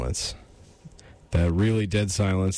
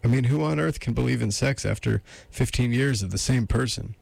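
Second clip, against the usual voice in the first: higher-pitched lady character; incredulous woman; 4 semitones higher than usual. Acted.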